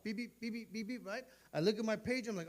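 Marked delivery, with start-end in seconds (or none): 0.0-1.2 imitated beeper. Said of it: "My beeper would go off".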